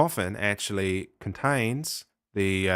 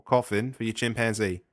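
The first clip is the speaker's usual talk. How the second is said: put-on Australian accent. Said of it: "you were indulging your Australian accent there".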